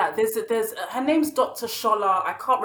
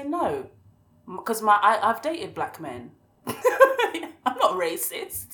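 a lightly mocking defensive voice; defensive denier; slower than usual. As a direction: play the indignant denier, laughing. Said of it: "They'll say".

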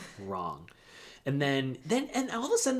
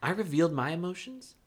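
lightly voiced calm appeal, ending softly; calm, rational; 3 dB quieter than usual. Son reasons with his angry dad, calm. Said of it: "being the calm, rational one in this situation".

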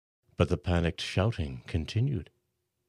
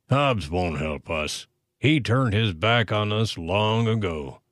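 muttered. A narrator's reading. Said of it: "a man muttered".

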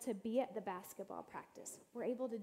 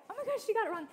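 much higher and louder burst of disbelief; amused shock; 11 semitones higher, 8 dB louder, much faster than usual. Retold or imitated. Recalling the lady with underwear on her head, shocked delight. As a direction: gasp it out as the joke dawns on you. Realizing the lady's mistake.

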